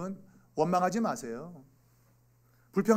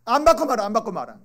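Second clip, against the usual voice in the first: loud, high burst that falls away; huffy refusal; 4 semitones higher, 8 dB louder, faster than usual. Acted. Child turning down the long-promised phone, huffy refusal. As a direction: refuse it in an acted huff.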